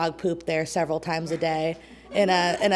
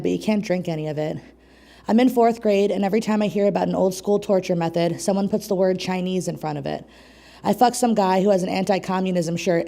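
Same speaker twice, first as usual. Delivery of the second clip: measured spoken-word poem delivery; poem reading. Acted. Poet performing her magnum opus at an open mic, spoken-word style. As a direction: read it as your proudest poem, line by line.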